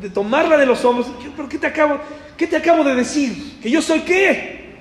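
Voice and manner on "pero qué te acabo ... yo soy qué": higher, pressing, incredulous questions; a teacher asking a student who forgot the answer; exasperated Jesus. Retold or imitated. Jesus to Martha, exasperated and pleading.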